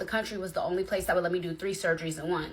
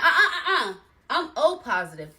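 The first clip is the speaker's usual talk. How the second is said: laughing refusal; 6 semitones higher, 6 dB louder than usual. Retold or imitated. Refusing the wrong blood.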